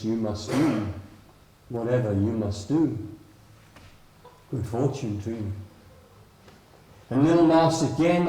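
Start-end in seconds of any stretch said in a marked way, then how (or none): 0.0-5.5 a hint of a low, steady wise frog; lightly lowered frog voice giving counsel; calm frog. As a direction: speak as the old guide setting a choice.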